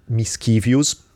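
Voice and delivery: mischievous as mis-KEE-vyus, drawn out slowly; mispronounced mischievous. Shown as a demonstration. Italian speaker trying a favorite word, mispronounced. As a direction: say "mischievous" with a hard k in the middle. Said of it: "how do you pronounce the word?".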